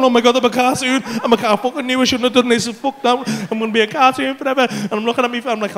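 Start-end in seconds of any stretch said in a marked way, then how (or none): 0.0-4.7 loud, rattled self-reproach; flapping panic. Retold or imitated. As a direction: flap and fret out loud, mock panic. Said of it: "that flapping going".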